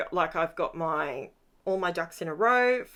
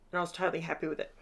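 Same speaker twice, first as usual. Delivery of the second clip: talking through a yawn; 3 semitones lower, 5 dB quieter, much faster than usual. Real, not acted. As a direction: let a yawn swallow the words. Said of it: "Sorry, yawning".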